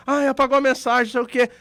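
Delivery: retold desperation. Retelling someone who finds a message deleted, mock desperate. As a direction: imitate someone mildly panicking over a message. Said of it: "A pessoa fica desesperada".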